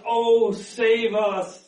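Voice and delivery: mild imitation of a crowd's cry; drawn-out plea. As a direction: call out for help, stretching each word.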